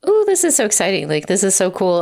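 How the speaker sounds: a light, playful imitation of giddy delight; mock gushing excitement. First-time author imagining her own audiobook, mock excited.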